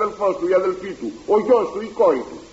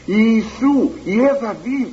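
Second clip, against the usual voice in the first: mild mock cry; 5 semitones higher, much slower than usual. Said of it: "Εκείνος πολλό μάλλον έκραζε".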